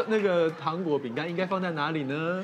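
lightly voiced quizzing mother; mock strict mum quiz. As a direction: playfully lecture like a strict mum.

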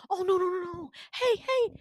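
high, cooing comfort; mock soothing. Villain hushing crying Winter, cooing. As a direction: coo it high to hush someone crying.

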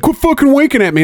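mock angry shout. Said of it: "He's like".

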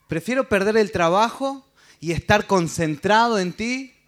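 pleading, voice rising and near tears, slowing at the end; acted crying plea to God; tearful prayer. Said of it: "Qué bueno que estás llorando".

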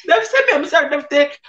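high, mock-innocent shrug; feigned surprise. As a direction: pass the blame, playing innocent. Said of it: "Eu falei".

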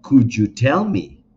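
teacher drilling the phrase loudly; emphatic model phrase. Shown as a demonstration. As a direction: stress "tell" strongly, slow and loud. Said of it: "necesito que armes esa misma pregunta".

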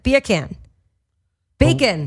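high Aussie "beer can", "bacon"; Australian accent. Shown as a demonstration. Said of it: "like, an Australian accent".

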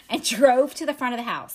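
real laugh breaking into the narration; laughing while narrating. Real, not acted. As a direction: laugh as you read on. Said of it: "I'm laughing because you are so uncomfortable".

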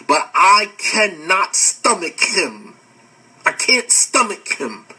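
slow, weighty retelling of a refusal; retold refusal, word by weighted word; retold firm refusal. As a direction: stretch it out slowly, imitating her firm distaste.

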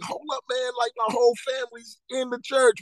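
realizing in shock that the whole family is there; stunned at finding my whole family in church; retold disbelief. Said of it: "I was like".

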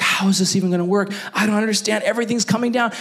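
high, rushed mock panic; freaking out. Pastor imitating himself when plans collapse, freaking out. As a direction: act out fretting, pitch climbing as it goes. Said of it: "when I'm freaking out".

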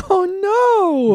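high laughing oh no; laughing dismay. Real, not acted. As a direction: cry it out laughing.

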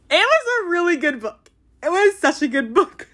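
high-pitched fangirl wail; whiny, high, overcome praise; gushing, overwhelmed. Real, not acted. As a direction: gush as if it is almost too much. Overcome with love for the book.

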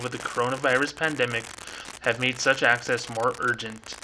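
fast nerdy official read; quick nerdy voice. Shown as a demonstration. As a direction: rattle it off like a policy nerd. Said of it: "quick nerdy voice here".

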